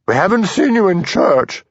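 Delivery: booming church lady voice. A narrator's reading. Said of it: "she boomed".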